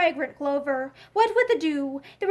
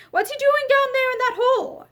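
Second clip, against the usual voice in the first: higher, puzzled call into the well; surprised question; 8 semitones higher than usual. A narrator's reading. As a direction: ask what on earth he's doing. Soldier asks, surprised.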